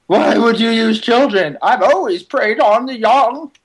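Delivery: creepy croaking villain voice; lightly voiced vulture villain. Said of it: "That's my vulture voice".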